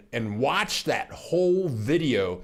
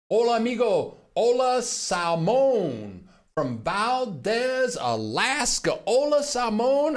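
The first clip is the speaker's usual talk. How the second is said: excited; 8 semitones higher than usual. Acted. Greeting viewer in playful Spanish.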